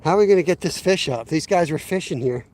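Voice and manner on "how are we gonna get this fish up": louder, exasperated question. Real, not acted. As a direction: raise the voice in frustration. Frustrated repeat about landing fish.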